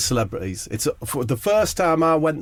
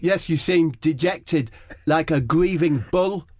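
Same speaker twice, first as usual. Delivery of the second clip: lightly raised, slow, earnest teammate voice; footballer impression; 6 semitones higher than usual. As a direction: say it slowly and solemnly. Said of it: "Eric says".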